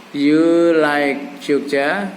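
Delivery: "You like Jogja?" very slow, asked as a question; slow model question on "You like Jogja?"; questioning tune. Shown as a demonstration. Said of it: "nadanya nada bertanya".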